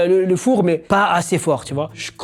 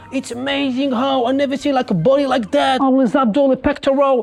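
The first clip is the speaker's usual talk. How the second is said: gushing admirers; 5 semitones higher than usual. Retold or imitated. Pool guests admiring his body, swooning.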